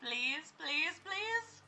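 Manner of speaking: pleading. Real, not acted. Gamer begging the game ghost, anxious pleading. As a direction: beg the ghost to spare him.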